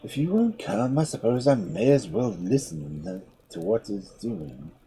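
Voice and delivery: slow, heavy shark voice. Acted. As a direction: drag the words like a dull shark. Shark grumbles.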